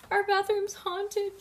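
high, slow, loud wail; drawn-out high-pitched storybook wail. A narrator's reading. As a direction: wail it out like a tearful child. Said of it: "wailed silently, suddenly".

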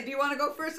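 "Do you wanna go first" rising at the end; question tune. Retold or imitated. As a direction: ask "wanna go first" high, as a real question. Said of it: "I say it like it's a question".

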